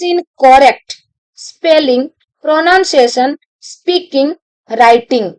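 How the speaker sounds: reads the question out very slowly, word by word; slow dictation reading. Acted. Teacher dictating an exam question to students, very slow. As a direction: dictate each word so students can copy it.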